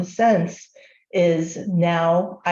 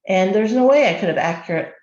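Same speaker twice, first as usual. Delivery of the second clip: talking with a hair in mouth; interrupted by a hair in the mouth; 2 semitones higher than usual. Real, not acted. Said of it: "I got a hair in my mouth".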